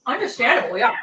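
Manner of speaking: talking while chewing; mouth full. Real, not acted. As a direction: mouth full of food, chewing between words. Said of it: "Sorry, I'm chewing".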